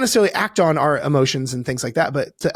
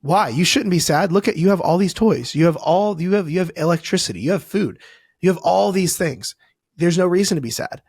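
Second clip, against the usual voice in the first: dismissive parent; 3 semitones higher than usual. Retold or imitated. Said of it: "And the parent says".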